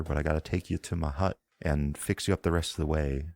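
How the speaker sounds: a Southern Isle healer scolding her patient to lie still; thick Southern Isle accent. Acted. Priestess warning the wounded rider not to sit up, thick Southern Isle accent. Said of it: "in a thick Southern Isle accent".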